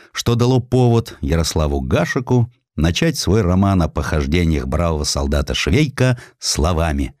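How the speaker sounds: ordinary delivery, nothing marked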